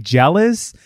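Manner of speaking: acted-out incredulous scorn, rising on each question; wild, scornful comeback, mildly hammed up; brutal scorn. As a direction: imitate a manic, cutting put-down. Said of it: "her reading of it too was, like, fucking brutal".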